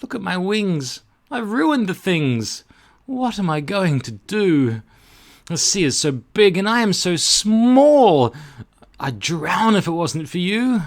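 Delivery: high, worried little butterfly voice; fretful butterfly. Acted. Butterfly tells the cork it fears drowning, high and fretful. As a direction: plead as a small frightened butterfly. Butterfly laments, lost at sea.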